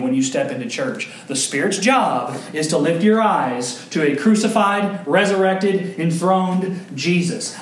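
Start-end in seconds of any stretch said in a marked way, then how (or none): 1.3-7.6 slow emphatic. Acted. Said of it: "repeated with emphasis".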